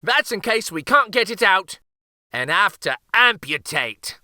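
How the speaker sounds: put-on high, sly old-uncle voice; teasing uncle. A narrator's reading. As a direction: spook the king playfully.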